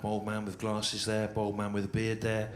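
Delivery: monotone list, creeping up in pitch and volume; droning roll-call. Acted. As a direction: point them out one by one in a relentless monotone. Repetitive roll-call of lookalike audience members.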